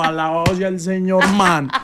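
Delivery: mock praise. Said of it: "Y yo".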